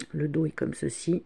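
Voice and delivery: sore throat, voice cracking; hoarse, breaking voice from a sore throat. Real, not acted. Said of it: "j'ai la voix qui déraille".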